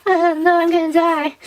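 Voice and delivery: high, put-on mom wail; hammed-up high-pitched despair; mock distraught mom. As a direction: imitate a panicking mother up in falsetto. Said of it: "And she's like".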